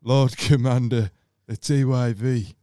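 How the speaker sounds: mocking a friend. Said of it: "But I don't sound like that".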